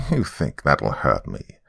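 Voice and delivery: mock them slowly as the old lady; lightly scornful old-woman voice; laughing old lady. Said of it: "and then laughed at me".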